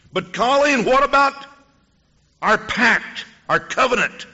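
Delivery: high, loud alarmed plea; pleading protest. Retold or imitated. Man protests Colleen leaving cult.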